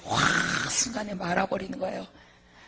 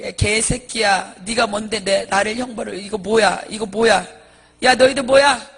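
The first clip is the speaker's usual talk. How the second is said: loud, defiant acted rant; acted angry yelling, no fear of anyone; cursing thug; 10 dB louder than usual. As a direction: hurl curses like a gangster monk. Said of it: "귀신 보고 막 욕을 하는 거야".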